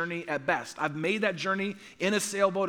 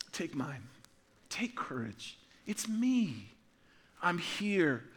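soft, slow, tender comfort; much softer, slowed tender reassurance; gentle reassuring Jesus; 3 semitones lower, 7 dB quieter, slower than usual. Acted. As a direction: hush it like a calming friend in the storm. Voicing Jesus again, tender.

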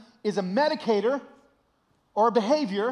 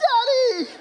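high, loud comic squeal of recognition; gleeful cry; 8 dB louder than usual. Retold or imitated. Son seeing dad's face in emoji, gleeful cry. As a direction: call out as if spotting your father.

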